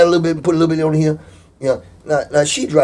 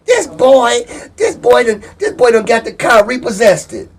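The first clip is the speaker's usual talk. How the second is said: higher-pitched imitation of an upset mother; mock tearful complaint; 5 semitones higher than usual. Girlfriend reporting her son's trouble, imitated high upset voice. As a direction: wail it as a put-on complaint. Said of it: "she busted out in tears and crying".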